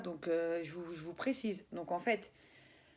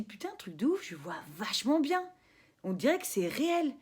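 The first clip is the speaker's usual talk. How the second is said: amazed inner voice; 4 semitones higher than usual. Retold or imitated. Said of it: "je me dis".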